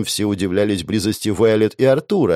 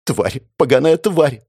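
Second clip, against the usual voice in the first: sobbing curse; 5 semitones higher, 3 dB louder than usual. Acted. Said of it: "продолжала всхлипывать".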